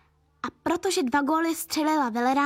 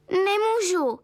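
sighing; 7 semitones higher, slower than usual. A narrator's reading. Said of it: "vzdychl táta".

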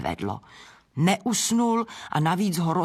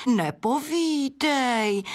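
slow, breathed-out wonder, pitched higher; admiring gasp; 8 semitones higher, much slower than usual. Acted. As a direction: sigh it in awe, high and slow. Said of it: "vydechla Adéla obdivně". (obdivně vydechnuté, pomalu a výš)

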